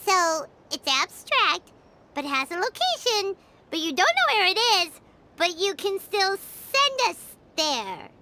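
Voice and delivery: baffled recap. Acted. Paimon sums up baffling logic.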